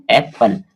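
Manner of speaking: "एप्पल" in two distinct beats, ऐप and पल; split into syllables. Shown as a demonstration. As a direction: break "एप्पल" after ऐप, then give पल. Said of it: "दो बार में पढ़ते हैं".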